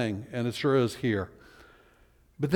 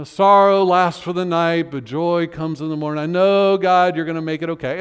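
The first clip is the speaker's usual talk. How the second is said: louder, confident hopeful quote; hopeful psalm voice; 4 dB louder than usual. Retold or imitated. Preacher voicing the upbeat psalm ending, hopeful. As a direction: proclaim the happy ending. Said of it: "You know".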